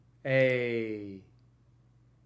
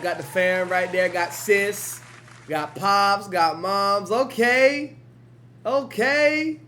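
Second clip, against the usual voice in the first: loud, high hype shouting at the screen; amped-up stream hype, louder and higher; 7 semitones higher, 7 dB louder, slower than usual. Real, not acted. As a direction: cheer the family on, pitched up and loud. Hyping the family on screen.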